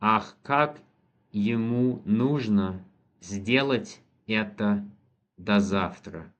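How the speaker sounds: slow, word-by-word dictation of the answer. Shown as a demonstration. Teacher dictating the translation to a student, slow and careful. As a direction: let each word land so the student can follow. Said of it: "teacher dictates the answer slowly".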